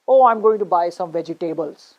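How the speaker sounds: vegetables as vegi-TAY-bles; stress on third syllable. Shown as a demonstration. Teacher acting a learner's shopping answer, vegetables as vegi-TAY-bles. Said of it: "You're stressing on the third syllable".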